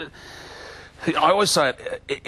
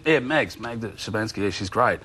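raised, lightly put-on New Zealand accent; mock Kiwi accent. Imitating the driver asking Shane what's on in Sydney, light Kiwi accent. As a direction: play the chatty Kiwi driver, light and eager. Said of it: "Oh, those crazy Kiwis".

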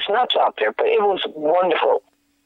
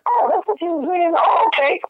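high, bright retold "oh" of discovery; imitating himself catching on; sudden realization; 13 semitones higher than usual. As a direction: act out the penny dropping.

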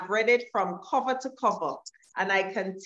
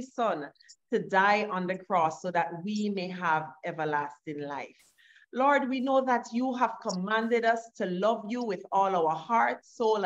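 prayer. Acted. Host leads a prayer.

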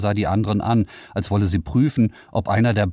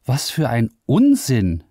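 higher, indignant outburst; 7 semitones higher, 4 dB louder than usual. Acted. Liara scoffs at the AI's claims, indignant. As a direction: scoff at the nonsense. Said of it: "empörte sie sich".

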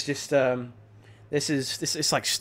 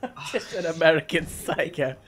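understated movie line; 6 dB quieter than usual. Acted. Mimicking partner's film-title line.

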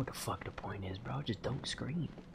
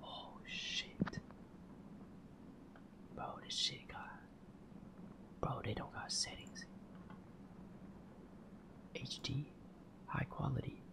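hushed unvoiced whisper; 2 semitones higher, 15 dB quieter than usual. Real, not acted. Streamer whispering so the game won't hear. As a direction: keep it to a breath. Whispering to keep mic low.

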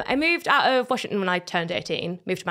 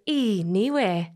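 Geordie model; 2 semitones lower than usual. Shown as a demonstration. Models Geordie word for her.

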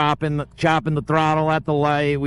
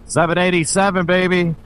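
excited; 4 semitones higher, faster than usual. Real, not acted. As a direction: shout out the road you love. Hyped to hit his old road.

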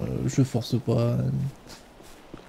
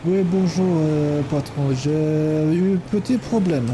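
put-on Ukrainian accent. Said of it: "mon superbe accent ukrainien".

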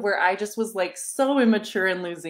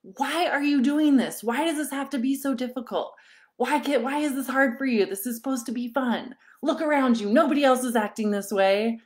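put-on higher, exasperated scolding of a child; frustrated scolding; 5 semitones higher than usual. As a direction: retell losing patience with a crying son at the pool. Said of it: "so mad and my blood boiling".

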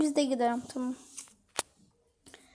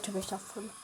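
"tövbe estağfurullah" repeated much softer, fading away; 7 semitones lower, 17 dB quieter, faster than usual. Acted. Calming himself after the scare, a much softer repeat. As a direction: let the second "tövbe estağfurullah" die to a hush.

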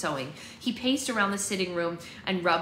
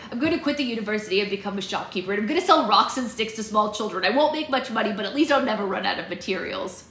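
put-on quick, fed-up boy rant; exasperated brother character; other boy voice; 2 semitones higher, 5 dB louder than usual. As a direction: rattle off a dramatic resignation. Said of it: "This is my other boy voice".

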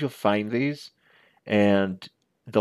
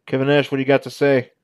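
wrestling announcer; 3 semitones higher, 4 dB louder, faster than usual. Pretend. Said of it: "Actually, I can bring that down a little bit".

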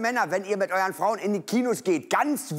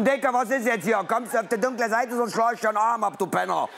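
mock slangy Darth Vader; 2 semitones higher than usual. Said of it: "Der hat der Faxen".

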